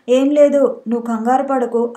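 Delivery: ordinary delivery, nothing marked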